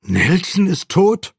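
high, slow incredulous question; stunned disbelief, pitch climbing to the end; disbelieving. A narrator's reading. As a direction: ask it slowly, unable to believe it. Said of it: "rief Bruce ungläubig".

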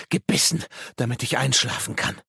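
high, insistent madman's cry; crazed cry. Acted. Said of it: "schrie er plötzlich". (hoch und irre schreien)

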